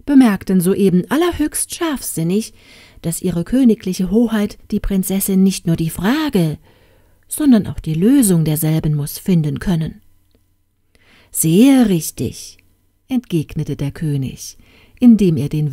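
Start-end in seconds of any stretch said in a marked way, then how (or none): 0.1-10.0 fawning vizier. Acted. Grand vizier flattering the king. 11.3-12.6 pompous approval. Acted. King agrees grandly.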